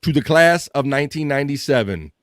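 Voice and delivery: hammed-up graduation-speech announcement; mock announcer. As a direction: proclaim it like a mock PSA, building to the sign-off. Mock public service announcement to class.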